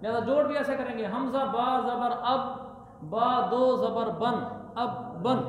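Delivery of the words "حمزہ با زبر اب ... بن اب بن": slow letter-by-letter spelling chant; spelling drill. Shown as a demonstration. Teacher spelling the word aloud for pupils, slow chant. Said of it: "teacher spells out the word".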